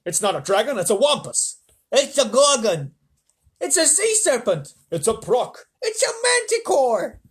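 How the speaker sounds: high, loud, slow frightened yells; panicked shouting. Acted. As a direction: cry out each monster name. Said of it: "They started shouting at once".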